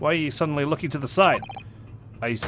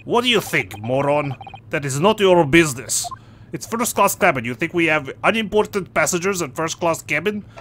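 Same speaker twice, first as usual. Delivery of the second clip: a lightly voiced rude sailor with a Russian-style accent, louder in places; surly sailor dropping articles, mild mock accent; gruff sailor; 3 dB louder than usual. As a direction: brush off the nosy passengers like a surly deckhand.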